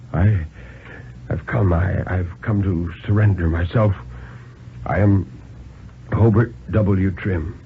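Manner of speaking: put-on halting, exhausted old man; weary old man. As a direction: stammer it out, worn to nothing.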